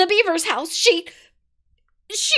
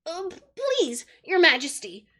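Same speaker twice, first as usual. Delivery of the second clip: frightened pleading; 8 semitones higher, 7 dB louder than usual. A narrator's reading.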